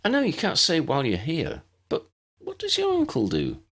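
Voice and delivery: a lifted, cheerful tone; brighter voice. Acted. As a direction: brighten up and change the subject. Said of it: "she continued in a brighter voice".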